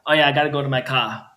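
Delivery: "car" said as "cah", R dropped. Shown as a demonstration. Showing how they sometimes pronounce it, "car" without its R. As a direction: drop the R at the end of "car". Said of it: "when I sometimes pronounce".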